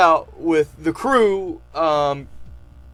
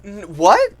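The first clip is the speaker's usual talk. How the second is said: dismayed disbelief; 11 semitones higher, 5 dB louder than usual. Retold or imitated. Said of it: "We're like".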